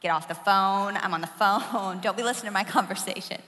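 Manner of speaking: put-on loud teen yell of Sean, get off the phone; yelling at brother. Teen girl yelling at her brother on the line, loud. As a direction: shout at your eavesdropping brother. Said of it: "I'd be like".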